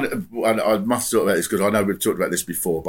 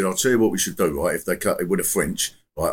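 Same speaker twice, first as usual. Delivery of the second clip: lightly acted man-in-the-street caller; imitated radio caller; 4 semitones lower than usual. Imitating a caller with a Brexit plan, lightly voiced. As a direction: put on a matter-of-fact caller. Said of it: "I'm doing the act, but I think he did talk like this".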